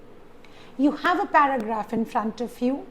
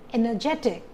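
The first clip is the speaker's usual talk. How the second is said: Energetic with the third syllable JE stressed; faster than usual. Shown as a demonstration. Teacher gives an example, stressing Energetic on JE. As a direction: lean on JE in Energetic. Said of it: "the stress is on j".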